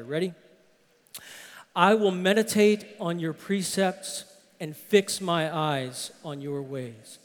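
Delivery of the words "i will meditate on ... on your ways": congregation reading aloud together; many voices in unison. Real, not acted. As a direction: read it aloud as a group. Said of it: "Let's read it aloud together".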